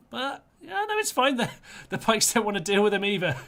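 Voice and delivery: can't hold the giggles in; laughing. Real, not acted. Watching the pikes dodge the dogs, laughing hard.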